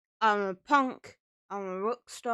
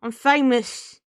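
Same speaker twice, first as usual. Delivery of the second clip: loud demon boast, slightly higher; 4 semitones higher, 9 dB louder than usual. Acted. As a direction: bellow it like a proud demon. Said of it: "It's my demon voice".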